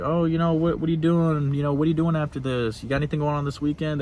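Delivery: a hint of a woman fishing for plans; light imitation of a woman asking about your weekend; mock flirty woman.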